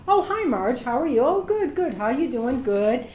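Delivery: imitating chirpy phone hellos; lilting, familiar back-and-forth pleasantries; friendly greeting. Booking clerk greeting a familiar caller, imitated friendliness.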